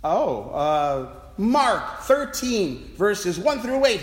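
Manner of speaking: mock accusing quiz. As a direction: challenge him with each verse. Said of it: "he said accusingly".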